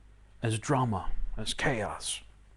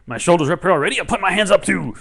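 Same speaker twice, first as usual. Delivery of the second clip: joyful reinterpretation; 3 semitones higher, 10 dB louder than usual. Pretend. Teacher showing students how to cheer at their tension. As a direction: cheer like tension is good news. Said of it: "reinterpret it as".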